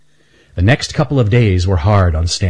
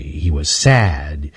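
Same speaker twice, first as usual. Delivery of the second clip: sad; 5 semitones lower, much slower than usual. A narrator's reading. Narration dips for sad.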